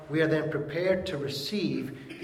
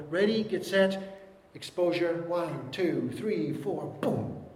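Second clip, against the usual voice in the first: photographer's countdown; 3 semitones higher, slower than usual. Pretend. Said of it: "they'd go".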